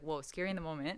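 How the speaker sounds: ordinary talk, nothing marked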